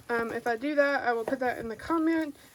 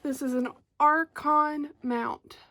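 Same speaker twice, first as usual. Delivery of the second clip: slow and clear; slower than usual. Shown as a demonstration. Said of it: "So I, I said".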